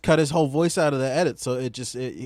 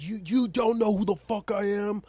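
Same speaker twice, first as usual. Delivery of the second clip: high, pompous sneering boss voice; drunken posh sneer; 10 semitones higher than usual. Retold or imitated. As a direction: puff up like a self-important boss. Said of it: "He's like".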